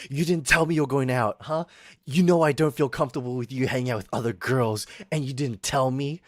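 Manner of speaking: lightly acted jealous girlfriend nagging; mock crazy girlfriend. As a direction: imitate a possessive partner, a touch heated. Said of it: "my friend went crazy".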